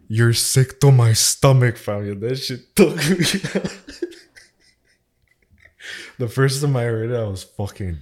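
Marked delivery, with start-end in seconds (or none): 0.1-2.1 slow, louder imitation of the podcast line; mock Toronto slang. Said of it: "the fucking".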